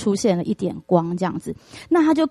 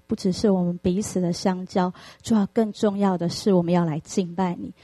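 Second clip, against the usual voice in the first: softer, steady prayer voice; 3 dB quieter than usual. Acted. Pastor leads the congregation in prayer, soft and reverent. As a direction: pray humbly before the congregation.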